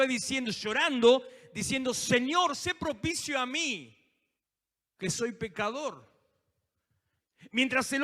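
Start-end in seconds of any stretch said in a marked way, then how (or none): 1.9-6.1 pleading sinner. Acted. Publican prays on the floor.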